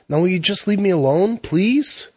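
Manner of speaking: put-on high, rising teen outburst, voice climbing; angry outburst. A narrator's reading. Teen yelling at the salesman and his family, angry outburst. Jamie finally bursts out.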